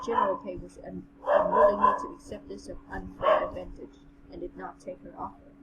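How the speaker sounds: even, measured story reading; story narration. A narrator's reading. Reading the general's tale to a friend, measured narration. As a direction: read it aloud in an understated narrator's voice.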